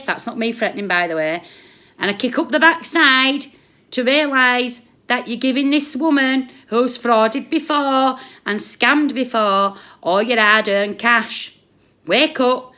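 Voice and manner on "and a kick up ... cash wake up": angry shout. Real, not acted. Angry rant continues.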